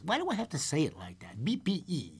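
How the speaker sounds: quick, hushed self-questioning; whispered aside. Real, not acted. Host questioning his own way of saying it, whispered. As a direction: whisper it off to the side.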